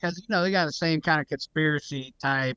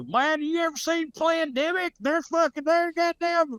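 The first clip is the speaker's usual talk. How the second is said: high-pitched conspiracy nut; conspiracy-guy impression; 13 semitones higher than usual. Someone pitching Plandemic to a friend, mock conspiracy guy. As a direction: put on a high-voiced excitable conspiracy believer. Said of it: "for a motherfucker to go".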